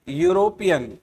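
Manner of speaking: यूरोपियन said clearly, starting with yu; teacher sounds out यूरोपियन; pronunciation demo. Shown as a demonstration. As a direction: model the word यूरोपियन for the class. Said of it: "यूरोपियन में first वाला जो फंसता है".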